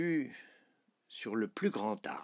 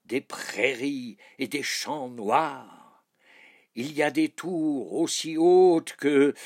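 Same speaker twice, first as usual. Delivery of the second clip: loud, raised, stretched-out proclamation; calling out; 4 semitones higher, 8 dB louder than usual. Acted. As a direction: call up to a passing cloud, loud and high. King calls up to passing cloud.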